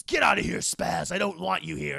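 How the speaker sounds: loud, exasperated get-out shout; hammed-up angry shout at a pest; mock yell. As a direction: yell the dog away, fed up. Spawn yells at the dog.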